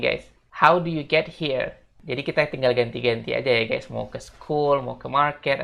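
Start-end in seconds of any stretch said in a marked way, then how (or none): 0.5-1.8 slow, clear model question; model sentence. Shown as a demonstration. Teacher models how to ask how they came. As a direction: say it slowly for learners. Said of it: "bisa bilangnya kayak gini".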